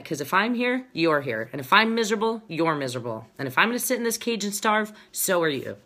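mock-stubborn seesawing delivery; spiteful crab. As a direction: lay down the rule, tit for tat. Voicing crabs who block the escape.

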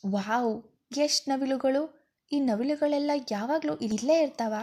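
a touch of a bride's wonder at the peacocks; happy. Acted. Shruti to her husband on seeing peacocks, mildly happy. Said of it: "ಕೇಳಿದಳು ಖುಷಿಯಲ್ಲಿ".

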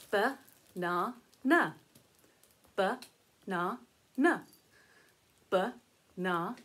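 Banana drawn out slow and low; slow syllables. Shown as a demonstration. Teacher sounding out the fruit name slowly. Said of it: "What do you think Sockie's got?".

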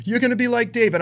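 high, gushing imitation of a prophet; mock positivity. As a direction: parody over-positive charismatic prophecy. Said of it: "It's always so positive".

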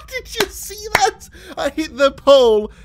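high, laughing and slowing down; laughing in disbelief. Real, not acted. Player laughs, asking viewers about the shot. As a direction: laugh it out, amazed.

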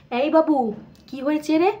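calling out. Acted. Mother calls son from outside.

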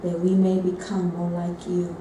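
slow, measured spoken prayer. Real, not acted. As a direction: pray aloud slowly, phrase by phrase. Prays aloud to God.

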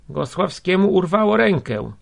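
high, loud announcement; called-back answer. A narrator's reading. Crowd answering the man at the window, calling out. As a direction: call the news up to someone far off.

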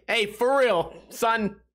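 half-hearted attempt at New York; bad New York accent. Joking cop to bystander, bad New York accent. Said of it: "I don't know how to do a New York accent".

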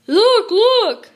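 put-on high, loud child's shout; "look!" yelled high and eager; excited shout. A narrator's reading. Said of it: "shouted Sister".

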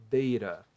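Deira in one piece, DEI-ra with tapped R; R-sound demonstration. Shown as a demonstration. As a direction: say Deira firmly, American tap for the T. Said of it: "Dessa forma aqui". (Deira com som de R, numa palavra só)

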